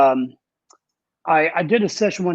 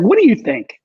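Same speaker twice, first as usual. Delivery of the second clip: higher, louder innocent question; playing the singer pestering the engineer, higher and louder; mock the singer asking; 12 semitones higher, 5 dB louder than usual. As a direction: ham up the singer's eager ask. The singer asks after sixty takes.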